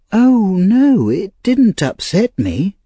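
put-on high child's voice, protesting; earnest Oliver. A narrator's reading. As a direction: protest eagerly in a high-pitched boy's voice.

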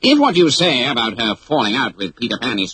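sly plotting voice; scheming captain. Acted. Hook plotting revenge with Smee, sly. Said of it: "he ordered Smee".

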